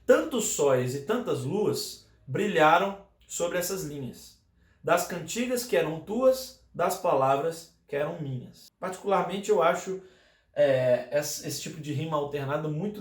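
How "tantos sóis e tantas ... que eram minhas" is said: poem reading. Shown as a demonstration. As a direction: read the verse aloud, unhurried. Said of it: "um trechinho só pra vocês verem esse exemplo, ó".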